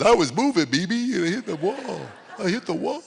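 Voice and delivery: put-on high, small child voice; crying little girl. Tearful granddaughter explaining her crash to grandma, high child voice. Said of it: "she looks at Tammy and goes".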